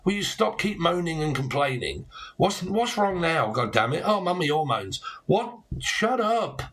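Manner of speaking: mock exasperated bloke rising to a high snap; hammed-up fed-up geezer at his partner; annoyed boyfriend. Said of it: "I do that when you're like".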